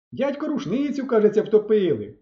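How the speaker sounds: calling out. A narrator's reading. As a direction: shout across the water. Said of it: "загукав я у відповідь". (хлопець гукає людям на березі)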